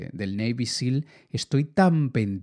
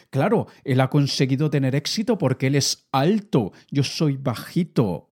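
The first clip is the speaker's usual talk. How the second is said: whiny excuse. Retold or imitated. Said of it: "cantidad de historias que se inventan".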